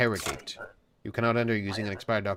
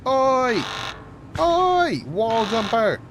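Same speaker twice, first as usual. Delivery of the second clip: high, loud repeated shouts of oi; alarmed yelling; 11 semitones higher, 6 dB louder, slower than usual. Pretend. Guard shouting after a wall jumper, in high alarmed yells. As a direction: yell out to raise the alarm.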